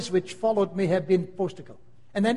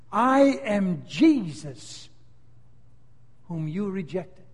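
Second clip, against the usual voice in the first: voice of the judge; slower than usual. Acted. Jesus as judge to the unbeliever, slow and grave. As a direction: pronounce it like a final sentence.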